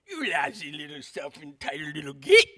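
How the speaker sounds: hammed-up, sneering British accent; mock British accent. Shown as a demonstration. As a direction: put on an exaggerated British accent, ending on a punchy "git". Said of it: "it's much worse because of his accent".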